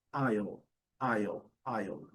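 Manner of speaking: aisle with silent S and a dark final L. Shown as a demonstration. Teacher repeats the word for learners, careful dark L demo. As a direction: say aisle like "ai-ol", each one falling. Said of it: "é um L dark L".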